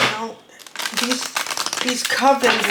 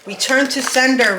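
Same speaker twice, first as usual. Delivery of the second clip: higher, louder return to sender, like a spell; commanding banishment; 4 semitones higher, 6 dB louder than usual. Acted. Reader banishing the witches' negativity with a loud command. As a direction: cast it back at them with full force.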